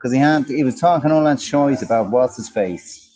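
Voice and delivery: put-on southern Irish accent. Shown as a demonstration. Host moaning about a radio presenter, Irish accent. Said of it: "You like Richie Allen's accent?".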